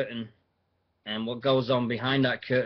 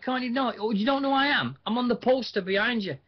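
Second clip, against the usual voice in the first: Styx mocking; 12 semitones higher, faster than usual. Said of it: "He's like".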